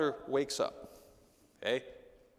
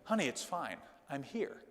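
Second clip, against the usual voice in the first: put-on soft, hushed comfort to a child; soft reassurance; 5 dB quieter than usual. Father calming his frightened daughter, soft and reassuring. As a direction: soothe a scared daughter gently. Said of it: "should be option B".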